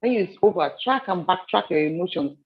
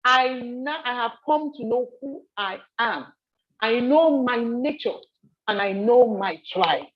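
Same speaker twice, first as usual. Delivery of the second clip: slow, raised-pitch proclamation of a lion; roaring lion's declaration; 5 semitones higher, slower than usual. Acted. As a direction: declare it slowly, pitched up, as a lion finding itself. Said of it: "That roar was".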